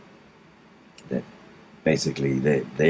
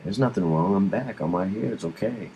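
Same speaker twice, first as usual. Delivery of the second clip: higher-pitched, lightly reassuring dad voice; calming a child; 5 semitones higher than usual. Retold or imitated. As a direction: gently soothe an upset son, retold. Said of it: "I'm trying to calm him down".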